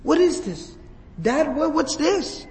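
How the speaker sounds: imitating a child's gasping disbelief; retold shocked daughter. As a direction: voice the daughter's alarm at seeing her father. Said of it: "And she gasps".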